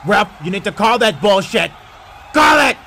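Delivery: rising protest at the referee; protesting to ref. Acted.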